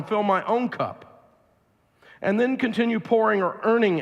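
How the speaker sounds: measured, deliberate read-aloud voice. Real, not acted. Speaker reads audience a passage on the Havdalah service, read aloud. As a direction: read the passage out formally, phrase by phrase.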